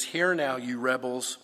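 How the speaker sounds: loud scolding call; angry rebuke. Retold or imitated. Moses berating the people at the rock, loud and angry. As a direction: bark it at the crowd. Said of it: "Now, he's so angry".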